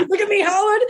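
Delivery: high, laughing look at me Howard; kid boxer boast. Pretend. A child playing a famous boxer taunting Howard, high and laughing. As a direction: crow at the interviewer like a boxer. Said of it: "I used to dress up like Muhammad Ali".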